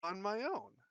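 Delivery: chirpy would-be private eye, talking up a stranger; detective Harold. Acted. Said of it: "he says".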